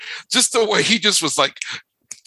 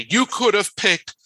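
higher-pitched, punched-out exasperated quote; emphatic quote; 7 semitones higher than usual. Retold or imitated. Host quoting a favorite scene to co-hosts, emphatic. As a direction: list each one as if outraged, pitched up.

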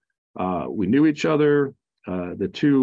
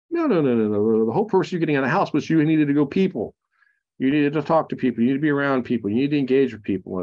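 imitating wife, higher and fast, pressing hard; insistent wife; 3 semitones higher, faster than usual. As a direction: retell the wife's firm no-no-no, rushing. Wife insisting he must socialise.

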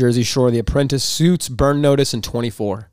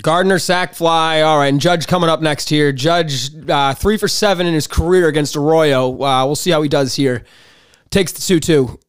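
play-by-play. Pretend. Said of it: "give us your best home run call".

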